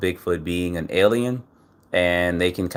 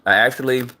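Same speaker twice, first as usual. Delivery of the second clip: talking while crunching a cough drop; words around a crunching lozenge; 5 semitones higher, 3 dB louder than usual. Real, not acted. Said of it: "I'm crunching my cough drop".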